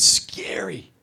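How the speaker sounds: "scary" drawn out and loud; heavy, lingering punch on "scary"; dramatic emphasis. Real, not acted. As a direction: stretch "scary" slowly for effect. Stresses how frightening the man was.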